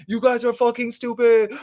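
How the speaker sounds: high-pitched mock streamer rant; mock yelling. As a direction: yell it like a streamer berating chat. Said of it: "yelling at my stream saying".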